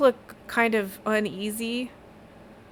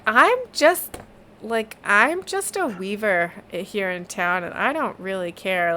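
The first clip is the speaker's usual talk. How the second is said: shrugging. Acted. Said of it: "she shrugs and is like".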